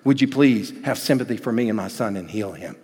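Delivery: soft, pleading father; begging father. Acted. Desperate father quietly begging Jesus to heal his son.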